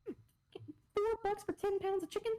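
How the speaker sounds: high, slow, drawn-out delight; thrilled. Real, not acted. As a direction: gush over the bargain. Excited about cheap chicken.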